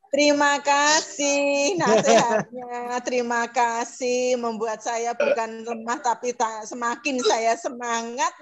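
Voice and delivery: slow, drawn-out thanks through tears; tearful thanks. Retold or imitated. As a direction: retell your thanks haltingly, close to crying. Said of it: "air matanya juga keluar".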